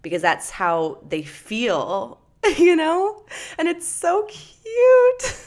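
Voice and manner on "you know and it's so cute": high, laughing, squealed cute; laughing gush. Real, not acted. Gushing over kids hugging.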